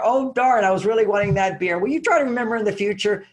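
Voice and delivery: high, quick, breezy request; a cheerful gentle complaint; light and friendly. Shown as a demonstration. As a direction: ask lightly, no blame in it. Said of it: "men can hear that".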